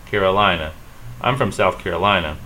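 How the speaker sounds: "Carolina" as care-uh-LINE-uh; English "Carolina", third syllable stressed. Shown as a demonstration. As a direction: lean on "li" in "Carolina". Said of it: "we stress the lie".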